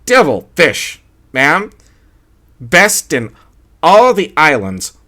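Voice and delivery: proud waiter selling the catch. A narrator's reading. Waiter voiced in story.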